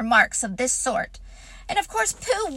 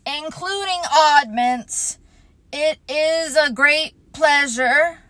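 pompous speech; 5 dB louder than usual. Acted. Eeyore's pompous party speech.

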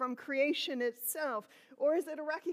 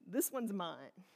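high then dropping, slow and fond; a fond this one's mine; proud claiming voice; 6 semitones higher, slower than usual. Retold or imitated. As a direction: say it like a proud parent. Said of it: "a way of saying".

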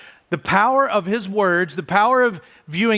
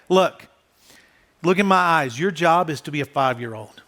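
put-on calm, steady reassurance to a child; soothing parent talk; reassuring parent. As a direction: settle a scared kid, gently but firmly.

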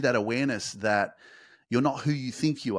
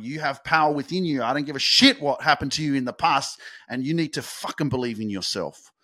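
louder, pushing every phrase out hard; fired-up pep talk; 3 semitones higher, 4 dB louder than usual. Shown as a demonstration. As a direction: pump the listener up, almost shouting. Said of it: "I'm speaking really fast and I'm going".

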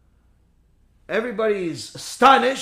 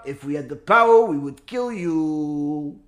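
menacing threat; 7 semitones lower than usual. Retold or imitated. Rabbi threatens the false messiah.

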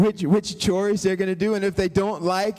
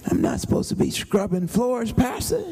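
put-on protesting young man; 2 semitones higher than usual.

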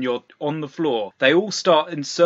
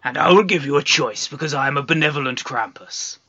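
Krampus voice. Acted. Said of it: "and he says".

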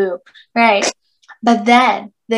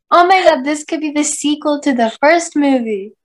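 excited; 5 semitones higher than usual. Retold or imitated. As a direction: play it like a thrilled fan. Mock excited quote of friend.

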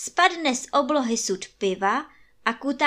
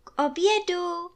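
calling to lunch; 9 semitones higher than usual. A narrator's reading. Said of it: "maminčin hlas".

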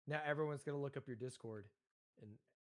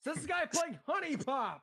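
teasing through laughter; 13 semitones higher, 4 dB louder, slower than usual. Real, not acted. Teasing friend's game status.

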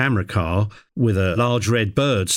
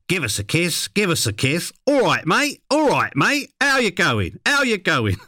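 high-pitched Cockney parrot voice; Cockney talking bird; 9 semitones higher than usual. Acted. The bird showing off for the crew, high Cockney parrot voice. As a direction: squawk it out in high Cockney, each phrase repeated. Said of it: "So Midas switched on his Cockney".

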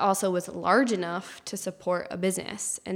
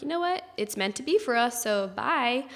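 breezy goodbye; 4 semitones higher than usual. Retold or imitated. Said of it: "we were like".

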